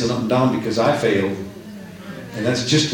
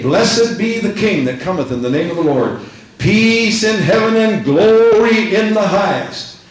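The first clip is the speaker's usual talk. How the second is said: proclaimed praise; 7 semitones higher, 4 dB louder than usual. Acted. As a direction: proclaim it like a crowd hailing a king.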